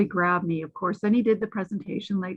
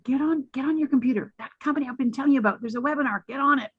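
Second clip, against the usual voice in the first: imitating urgent friend; 4 semitones higher, much faster than usual. Friend retold urging her online.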